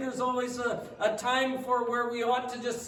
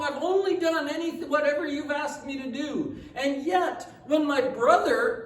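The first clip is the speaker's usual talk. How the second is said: raised, slowed, indignant complaint; aggrieved protest; 4 semitones higher, 4 dB louder than usual. Retold or imitated. Preacher voicing the older son to his father, aggrieved. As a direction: voice the son's hurt sense of injustice.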